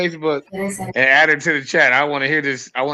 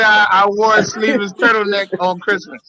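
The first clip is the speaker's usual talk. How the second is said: mock shout; 4 semitones higher than usual. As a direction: yell it out to mock him. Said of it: "that nigga said".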